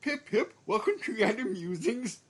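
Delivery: high, plummy mock-British welcome; mock posh British intro. Host tries a mock-British intro for the podcast. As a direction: hams up a toff's podcast greeting. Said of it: "that will be my intro".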